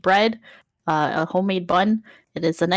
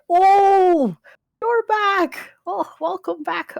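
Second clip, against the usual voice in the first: high-pitched, delighted welcome; Uncle Henry; 12 semitones higher, 5 dB louder, much slower than usual. Acted. Uncle greeting the returning party, high excited welcome. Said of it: "Uncle Henry has actually been waiting".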